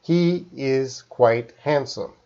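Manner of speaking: slow, deliberate words with space between; careful word-by-word delivery; enunciating clearly. Shown as a demonstration. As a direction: enunciate as if dictating to a phone. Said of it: "how I would talk to my phone".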